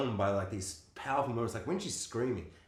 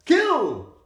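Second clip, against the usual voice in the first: high, loud mock-witch yelling; hammed-up villain shouting; 9 semitones higher, 9 dB louder than usual. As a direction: holler it like an overacting film witch. Mocking the witch's overdone dialogue.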